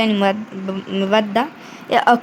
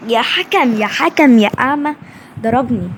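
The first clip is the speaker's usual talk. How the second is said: shouting at ref. Real, not acted. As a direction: yell at the blind ref. Yelling at referee.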